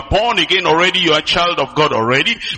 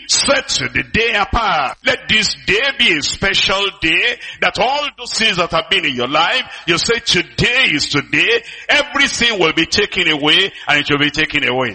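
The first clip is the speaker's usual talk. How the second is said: voice of the Lord. Retold or imitated. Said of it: "the Lord is saying".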